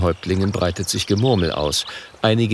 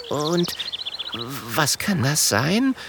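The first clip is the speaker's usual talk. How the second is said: a touch of fear; 6 semitones higher, 3 dB quieter, much slower than usual. Acted. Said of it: "fragt Kokosnuss ängstlich".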